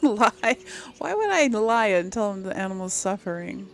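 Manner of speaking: laugh, then baffled questioning; real puzzled disbelief; incredulous. Real, not acted. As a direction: burst out loud on Lie, amused disbelief. Baffled by odd dialogue option.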